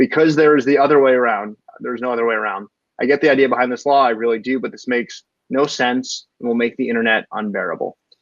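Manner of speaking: plain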